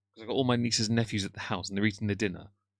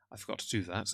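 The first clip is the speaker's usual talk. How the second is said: whispered aside; 7 dB quieter than usual. Real, not acted. Streamer realises missed poll.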